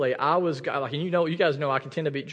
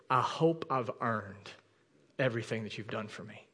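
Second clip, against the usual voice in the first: hushed graveside words; 4 semitones lower, 6 dB quieter than usual. Retold or imitated. Old veteran speaking at Captain Miller's grave, hushed. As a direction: say it quietly, as if to the dead.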